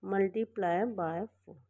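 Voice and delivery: corrected phrase dictated at a crawl; slow dictation. Shown as a demonstration. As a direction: drag out multiply by four so students can write it. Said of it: "sorry".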